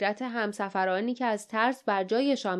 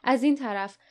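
a mildly raised call; 3 semitones higher than usual. Acted. Leif calls the others toward the passage, mildly raised. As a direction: point the way with a light call. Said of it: "و فریاد زد".

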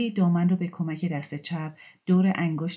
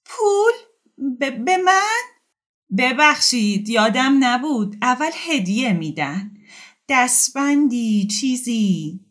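very high, loud shocked stammer; stunned, lips trembling; shocked woman stammering about money; 8 semitones higher, 6 dB louder, slower than usual. Acted.

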